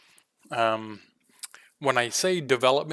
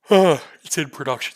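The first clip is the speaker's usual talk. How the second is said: fighting off a sneeze mid-sentence; words squeezed out around a sneeze; holding back a sneeze; 4 semitones higher, 9 dB louder than usual. Real, not acted. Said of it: "I'm trying not to sneeze and it's making me yawn".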